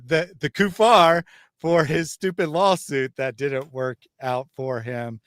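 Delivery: ordinary delivery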